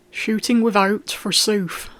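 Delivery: put-on loud, scornful echo of the boy's words; an angry lord mocking the boy's excuse, roaring. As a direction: throw his words back at him with a bellow. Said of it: "roared Falk".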